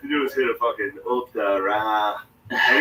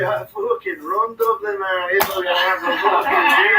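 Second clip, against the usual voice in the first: put-on boastful drunken shout; 7 semitones higher than usual. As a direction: roar it like the king of the town. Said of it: "He's like".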